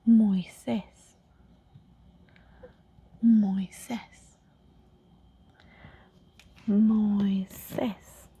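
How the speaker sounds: Moisés as moy-SEHS, stress on last syllable; Spanish Moisés. Shown as a demonstration. Tutor modelling the Spanish name Moisés, Spanish pronunciation. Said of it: "In English is Moses".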